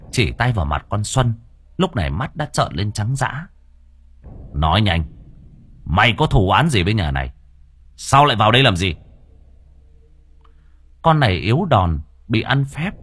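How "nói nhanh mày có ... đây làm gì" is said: loud, commanding demand; stern interrogation. Acted. The master sternly demands the ghost confess. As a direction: press the ghost hard for answers.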